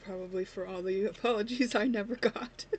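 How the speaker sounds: tearful giggle, words half laughed; laughing through tears. Real, not acted. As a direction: laugh it off while still teary. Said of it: "have a little giggle on it".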